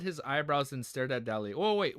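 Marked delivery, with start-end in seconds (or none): 1.6-2.0 surprised. Real, not acted. Sudden realization.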